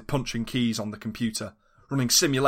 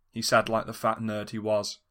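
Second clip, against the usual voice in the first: ordinary delivery, nothing marked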